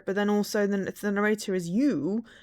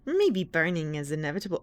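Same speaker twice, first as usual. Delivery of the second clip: villain voice. Shown as a demonstration. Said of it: "a Disney villain and freaking Gollum".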